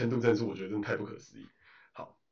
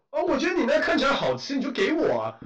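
higher, louder, brazen voice; mock entitled woman; 11 semitones higher, 4 dB louder than usual. Imitating the woman who took their fruit, brazen. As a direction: play the shameless thief, unbothered. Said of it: "我们就骂他".

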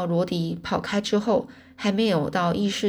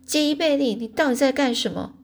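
high, scolding mother's call; raised, exasperated parental yell; shouting; 6 semitones higher than usual. A narrator's reading. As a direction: demand an answer in alarm. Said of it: "妈妈就对我大喊".

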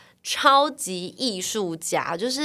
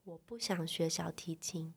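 soft, slow, drifting-off refusal; little sister blankly refusing violin, very soft; flat refusal; 14 dB quieter than usual. Retold or imitated. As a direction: mumble it out blankly.

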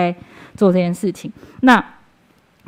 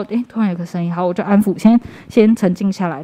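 normal talking voice

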